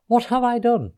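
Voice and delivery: high-pitched dismay; storybook horror at what happened; aghast. A narrator's reading. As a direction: wail at your own blunder. Fairy aghast at the pterodactyls.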